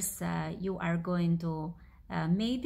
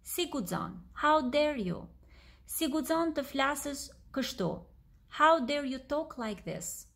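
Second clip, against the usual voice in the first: higher-pitched, mildly affronted demonstration; indignant queen; 6 semitones higher than usual. Shown as a demonstration. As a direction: lightly act out an offended queen. Queen's indignant line repeated for learners.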